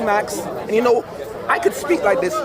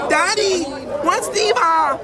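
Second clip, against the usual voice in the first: put-on higher little kid voice; child voice; 6 semitones higher, slower than usual. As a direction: ask it like a small child. Voicing the son asking.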